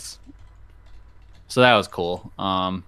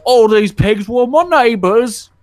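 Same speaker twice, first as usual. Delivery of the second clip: high, loud, slow simpleton; 12 semitones higher, 7 dB louder, slower than usual. Retold or imitated. Simpleton explains the pigs to the hero, high and slow. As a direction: drag it out like a dim village fool. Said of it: "talk to the simpleton".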